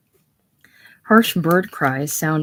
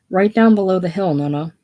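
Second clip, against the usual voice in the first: shouting to a deaf man; 2 semitones higher, 5 dB louder than usual. Acted. Hannah to her deaf grandfather, raised clear shout. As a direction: speak up so a deaf old man hears. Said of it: "she shouts to make him hear".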